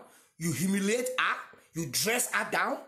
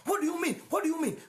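flaring up; 7 semitones higher, faster than usual. Retold or imitated. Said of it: "And she flares up".

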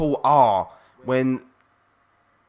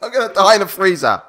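laughing imitation; 5 semitones higher, 3 dB louder, much faster than usual. Repeats clip line laughing.

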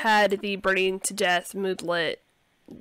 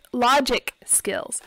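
a little scratchy, losing voice; hoarse from a cold; slower than usual. Real, not acted. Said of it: "my voice is a little scratchy".

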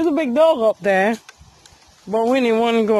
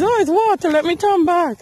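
voicing the dog's thoughts; 7 semitones higher than usual. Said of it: "she realized".

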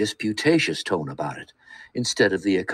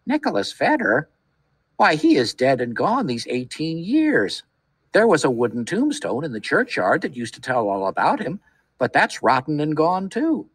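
put-on much higher, thin old man's piping; 6 semitones higher than usual. A narrator's reading. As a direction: pipe it up like a frail old man. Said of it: "replied in a thin, piping voice".

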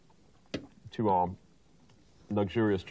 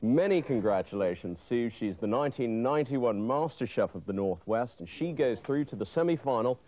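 TV presenter. Acted. Host announces the winner.

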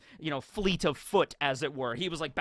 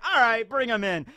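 judge; 7 semitones higher, 6 dB louder than usual. Acted. Judge calls prisoner in.

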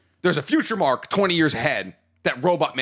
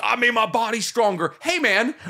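put-on Southern accent; 6 semitones higher than usual. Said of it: "Why are you doing a Southern accent?".

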